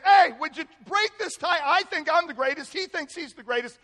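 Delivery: loud, high mock pleading; squabbling disciples. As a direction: demand a ruling like bickering rivals. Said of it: "Can you imagine coming to the Lord saying".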